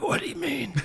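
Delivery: high, squeaky mock innocence; innocent squeaky reply. Hoarse director playing innocent to the grip. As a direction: play dumb in a squeaky voice.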